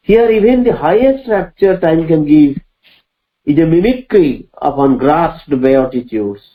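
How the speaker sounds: measured, weighty reading of verse; slow poem recitation. Acted. Teacher reciting Savitri to the class, slow and solemn. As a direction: recite each line slowly, letting it ring.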